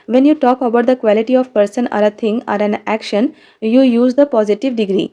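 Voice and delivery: reading each word slowly for the class; dictating the sentence slowly and clearly; slow textbook reading. Shown as a demonstration. Reads definition from book. (धीरे-धीरे पाठ पढ़कर सुनाना)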